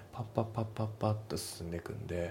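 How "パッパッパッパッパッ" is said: fast, evenly chopped syllables; quick staccato. Shown as a demonstration. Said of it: "響きとか伸ばしとかがない分".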